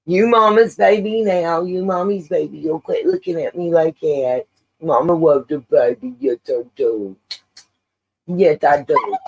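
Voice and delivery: cooing pet talk, sing-song and fond. Real, not acted. Owner fussing over her whining dog mid-stream, in doting baby talk.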